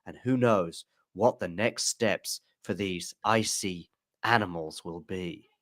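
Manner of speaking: slow, rhythmic documentary narration; voiceover narration. Retold or imitated. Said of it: "she's got a perfect rhythm".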